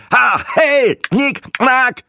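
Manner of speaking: very high, loud staccato bursts; rapid-fire outbursts. A narrator's reading. Breitling mocks the click language, firing shrieked bursts. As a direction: fire off each syllable like a strobe. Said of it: "Breitling feuerte mehrere stroboskopartige".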